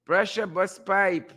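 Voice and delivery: slow, lightly put-on catchphrase; a hint of a character voice; Crab Man. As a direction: draw it out as a light impression. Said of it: "in my best Crab Man voice".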